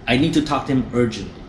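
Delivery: quick, pressing insistence; pushy insistence. Shown as a demonstration. Caller pushing the receptionist, quick and insistent. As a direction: push them to hurry. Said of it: "You push, push".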